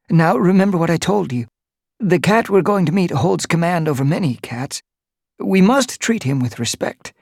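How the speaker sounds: a skinny cat urgently coaching his leader, pitched high; nervous gray cat Boulder. A narrator's reading.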